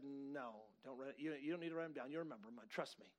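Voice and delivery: low, soft counselor's voice; understated reassurance. Retold or imitated. Counselor telling client not to take notes, understated reassurance. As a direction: play it down, low and quiet.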